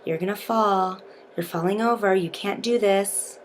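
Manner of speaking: soft, hushed taunts; whispering. Shown as a demonstration. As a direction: whisper the taunts into their ear. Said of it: "whispering in their ear".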